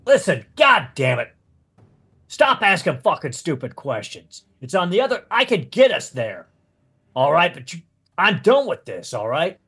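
lightly voiced irritable monk; mildly testy, emphatic bursts on the complaints; exasperated monk. Monk to questioning rescuer, fed up and a touch angry.

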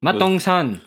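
talking while crunching a cracker; words around a crunchy mouthful; crunching snack. Real, not acted. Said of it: "I can't hear you over the crunching of my own mouth".

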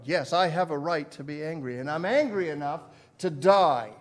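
defiant retort. Retold or imitated. Jonah's defiant answer to God.

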